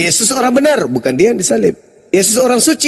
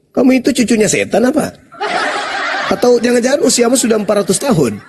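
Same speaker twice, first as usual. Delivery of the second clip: mocking with laughter; 3 semitones higher than usual. Real, not acted. Teasing opponent as a devil.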